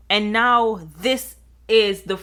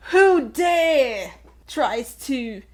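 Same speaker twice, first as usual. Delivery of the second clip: outraged king; 4 semitones higher than usual. Retold or imitated. King voiced in story.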